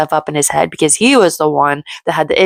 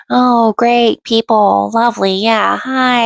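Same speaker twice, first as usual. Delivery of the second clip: sarcastic greeting; 5 semitones higher, slower than usual. Retold or imitated. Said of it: "and she's like".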